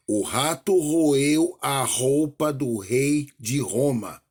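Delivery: slow, each R in "rato roeu a roupa do rei de Roma" rolled out; teacher reading an example, leaning on every R; alliteration example, R's stressed. Shown as a demonstration. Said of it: "Então, por exemplo".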